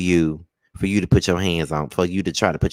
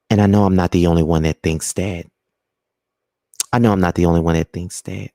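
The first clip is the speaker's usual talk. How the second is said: measured, lower podcast-host delivery; 3 semitones lower than usual. Pretend. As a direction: put on a podcaster's voice, slightly lower. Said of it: "let me put on my podcast voice".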